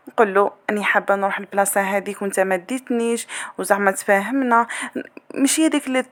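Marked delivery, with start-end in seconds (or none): 0.7-3.3 gentle reasoning. Shown as a demonstration. Wife asking husband to take her out, gently reasoning. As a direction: ask gently, without demanding. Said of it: "نبداو غير بالعقل".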